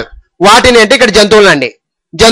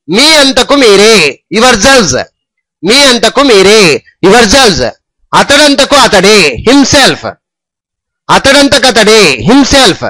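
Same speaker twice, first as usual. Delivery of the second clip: slow drill; slower than usual. Shown as a demonstration. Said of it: "repeated drill lines".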